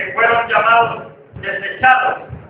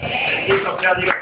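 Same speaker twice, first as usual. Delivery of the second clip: rising sermon, pushing the promise home; preaching; 2 semitones higher than usual. Acted. Pastor urges the congregation, fervent preaching. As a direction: preach with growing fervor to the church.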